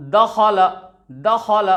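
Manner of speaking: दखल in three short syllables; crisp, quick दखल; short vowels, read quickly. Shown as a demonstration. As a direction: say दखल briskly without stretching. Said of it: "क्या है दोस्तों?".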